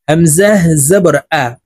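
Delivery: "আ" said short and quick after "হামজাহ জবর"; quick short vowel. Shown as a demonstration. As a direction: spell it out and cut "আ" short. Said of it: "তাড়াতাড়ি করে উচ্চারণ করতে হবে". ("আ" তাড়াতাড়ি, না টেনে)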